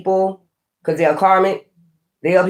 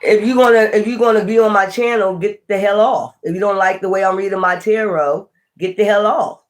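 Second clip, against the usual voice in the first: annoyed telling-off; 3 semitones higher than usual. Real, not acted. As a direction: tell the hater to leave, fed up. Scolding a commenter on channel.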